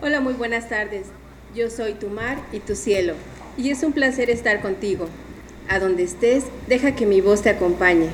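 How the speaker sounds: soft, seductive radio voice; sensual voice. Acted. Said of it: "La voz sensual de Mar y Cielo".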